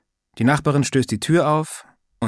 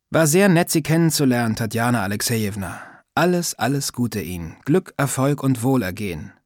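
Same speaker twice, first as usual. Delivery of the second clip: sarcastic. Acted. Sascha brushing off the old neighbour, sarcastic. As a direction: overdo the good wishes to mock her. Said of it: "sage ich sarkastisch".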